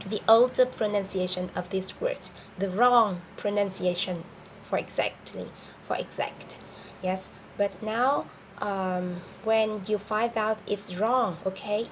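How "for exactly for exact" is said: whispered. Real, not acted. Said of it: "unvoiced trailing aside".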